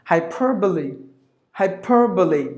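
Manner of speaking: "Hyperbole" as hai-PURR-buh-lee; American rhotic PER in "Hyperbole"; American pronunciation. Shown as a demonstration. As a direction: sound the R in "Hyperbole". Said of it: "American way is just the pronouncing of the letter R".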